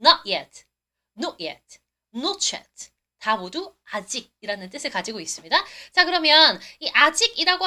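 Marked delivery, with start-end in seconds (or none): 0.0-0.7 louder American "Not yet", open "naht"; American "Not yet" with an ah vowel, low and loud; American pronunciation. Shown as a demonstration. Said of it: "미국 발음은요". 1.2-1.8 soft, low British "Not yet"; British "Not yet" with a rounded o in Not; British pronunciation. Shown as a demonstration. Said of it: "영국 발음 뭐라고요". 2.1-2.9 "Not yet" fused as "not-chet"; "Not yet", t and y merged into ch; hard British linking. Shown as a demonstration. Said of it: "세게 하면 뭐라고요".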